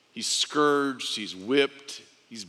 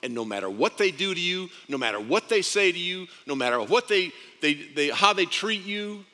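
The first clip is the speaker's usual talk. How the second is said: raised pitch, insistent repetition; fervent fatherly urging; 5 semitones higher than usual. Acted. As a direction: press each phrase home. Father urging his Son.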